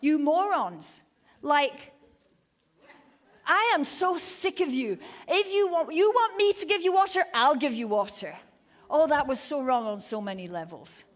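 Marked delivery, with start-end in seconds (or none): 0.0-1.0 louder, slow scornful jab; slow, louder put-down; angry insult. Retold or imitated. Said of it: "That's literally". 3.4-8.4 loud, much higher exasperated rant; fed-up rant. Retold or imitated. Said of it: "'cause he's so mad".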